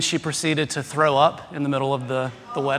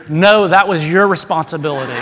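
retold loud quick reply; 5 dB louder than usual. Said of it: "very quickly, out loud so everybody could hear".

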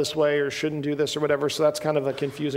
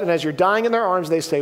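normal talking voice

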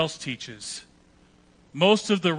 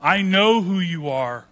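retold yelling; 3 semitones higher, 6 dB louder than usual. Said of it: "But he starts yelling".

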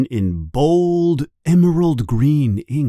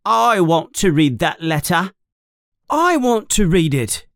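put-on high, insistent child's demand; very loud demand; 7 semitones higher than usual. A narrator's reading. Dudley hates being ignored, loud insistent demand. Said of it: "he says very loudly".

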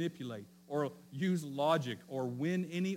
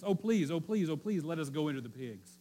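mock-pleading demons, higher and louder at each "please"; begging demons; 3 semitones higher, 4 dB louder than usual. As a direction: beg like a cornered demon, half in jest. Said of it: "the demons in-, beg him for, for gentleness".

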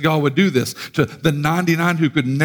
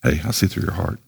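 God's voice; 8 semitones lower, 4 dB quieter than usual. Retold or imitated. Voicing God's reply.

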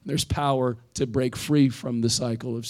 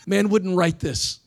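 chuckling as you say it again; amused, drawn-out repeat; laughing; 6 semitones higher, 3 dB louder, slower than usual. Shown as a demonstration. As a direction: repeat it higher and slower through a laugh. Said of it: "Man wouldn't write this kind of junk".

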